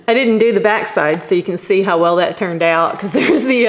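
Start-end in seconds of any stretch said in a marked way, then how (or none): 1.2-3.7 chuckling through the words; laughing. Real, not acted. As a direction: laugh at your own mistake. Laughing at own unfinished backside.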